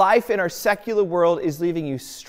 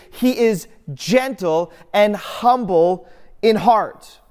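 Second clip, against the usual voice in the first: higher, louder and slow, proclaiming "gentle and humble in heart"; proclaimed; 4 semitones higher, 5 dB louder, slower than usual. Acted. Preacher proclaiming Jesus' heart to the congregation, loud and slow.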